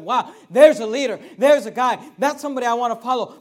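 loud, awed exclamation of admiration; impressed crowd. Retold or imitated. Preacher voicing an impressed crowd, loud and awed. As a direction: call out like a crowd dazzled by a tall man.

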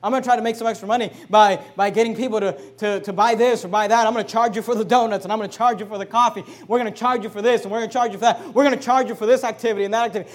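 a lightly voiced greedy preacher, starting loud then rattling fast; mocking false prophet. Pastor mimicking false prophets to congregation, mild mock voice. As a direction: sneer it as the money-grubbing prophet. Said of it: "false prophets who go out and say".

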